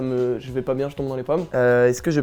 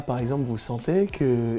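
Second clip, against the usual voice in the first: mock deep hypnotist voice; 3 semitones lower than usual. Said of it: "parler avec une voix grave".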